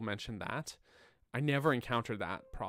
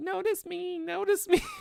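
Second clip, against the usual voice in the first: put-on very high, drawn-out, creaky, whiny baby voice; 6 dB louder than usual. Retelling how the speaker's wife mocked the tweets: imitating a whiny baby voice. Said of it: "she literally did like a whiny baby voice".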